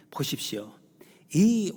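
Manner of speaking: hushed voiceless words; whisper. Real, not acted. Preacher pointing to the text, whispered. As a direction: lean in and whisper. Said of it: "preacher whispers".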